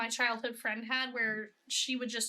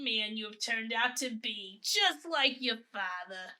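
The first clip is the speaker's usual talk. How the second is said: lightly voiced proud grandmother; a fond old grandma, gently formal; slower than usual. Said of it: "I do my grandma voice a lot".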